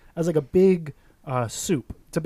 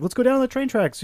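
higher-pitched, emphatic retelling; insistent repeat; 8 semitones higher than usual. Retold or imitated. Repeating the plan to a baffled friend, insistent. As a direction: say it again, pitched up to persuade.

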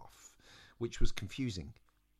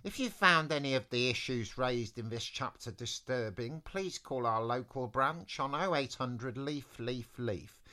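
lightly voiced friendly talking tree; Sidney the Tree. Tree leaves readers a helpline message, lightly put-on voice. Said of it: "I'll do it in Sidney the Tree's voice".

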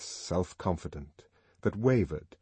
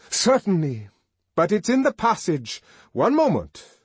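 high, loud and ready; loud confident reply; 10 semitones higher, 7 dB louder than usual. Acted. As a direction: announce it boldly to the room.

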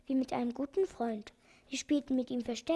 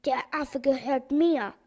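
mock angry shout, each word slow; slow down and lean on MIR; slow, loud claim; 6 dB louder than usual. The organ-grinder claims the monkey from the doctor, in a slow loud shout. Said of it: "schrie er".

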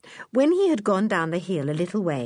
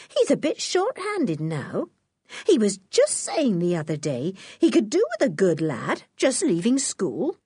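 Mrs Mackey's voice. Acted.

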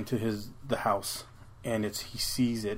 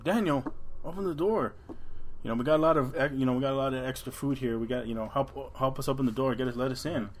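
higher, pleading voice behind him; imitating his parents; 3 semitones higher, 3 dB quieter than usual. Thing mimicking his parents begs Daniel, higher pleading voice. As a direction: coax him to let them in. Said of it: "he hears the voice of his parents".

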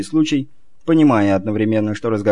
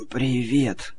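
hoarse croak; 6 dB quieter than usual. Acted. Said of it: "с трудом прохрипел".

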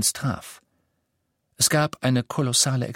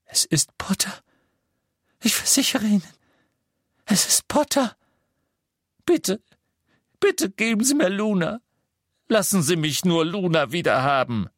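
breaking into frantic begging; terrified father begging for Luna; desperate pleading; 9 semitones higher than usual. A narrator's reading. Xenophilius pleads for daughter.

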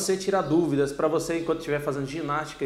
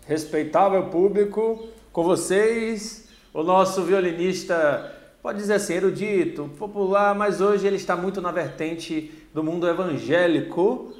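ringmaster. Acted. Announcing guest like circus.

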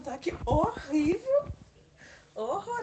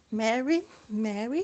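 meme voice; 5 semitones lower, 5 dB louder, slower than usual. Retold or imitated. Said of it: "fico fazendo agora".

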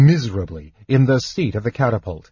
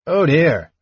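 dismayed; 5 semitones higher than usual. A narrator's reading. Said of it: "said Nosh, staring".

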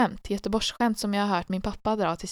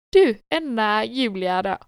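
imitated eager dad; 3 semitones higher, 6 dB louder than usual. Acts out father launching a story.

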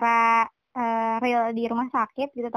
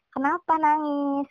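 put-on slow, gentle question to a crying child; gentle asking; much slower than usual. Shown as a demonstration. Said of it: "Kita lebih baik nanya gitu". (bertanya pelan dan lembut)

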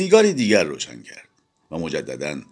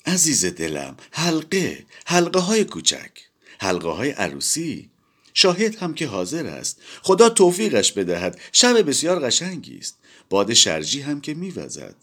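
trembling voice; 9 semitones higher than usual. A narrator's reading. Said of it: "با صدای لرزان پاسخ داد".

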